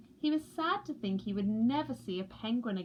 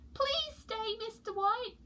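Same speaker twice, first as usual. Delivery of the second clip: pleading chicks; 11 semitones higher than usual. A narrator's reading. Chicks beg polar bear to stay, high. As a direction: beg him sweetly. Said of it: "said Peaky and Poots".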